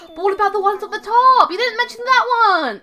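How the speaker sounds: high-pitched comic shout; mock outraged protest. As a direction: interrupt with exaggerated indignation. Player mock-protests the owl's tour.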